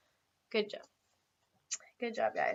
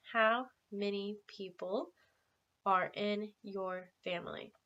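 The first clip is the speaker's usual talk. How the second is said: slow model question; 4 dB quieter, slower than usual. Shown as a demonstration. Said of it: "repeat that with me".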